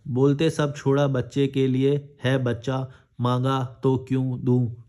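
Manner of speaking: slow, halting word-by-word reading; reading a comment aloud. Acted. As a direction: read it out haltingly, slowly. Resumes reading the badly written comment. (कमेंट को धीरे-धीरे, अटक-अटक कर पढ़ना)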